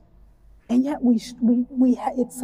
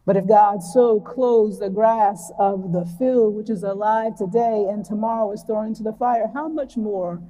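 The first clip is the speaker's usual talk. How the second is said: unhurried reading of scripture to the congregation. Shown as a demonstration. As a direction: read the Gospel passage slowly and deliberately. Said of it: "I'm gonna read it pretty slowly".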